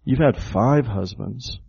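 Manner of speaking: slow, with "five" leaned on; stress on FIVE. Shown as a demonstration. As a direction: draw out the line and weight "five". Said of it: "The Greek emphasizes the word five".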